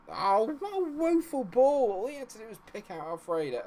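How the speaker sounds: high, loud cry of dismay; real, high-pitched exasperation; exasperated outburst. Real, not acted. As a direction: wail in exasperation at a terrible pass. Complains at bad pass in game.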